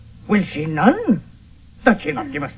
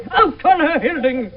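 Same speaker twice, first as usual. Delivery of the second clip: angry shout; 4 semitones higher, 3 dB louder than usual. Acted. Father curses daughter.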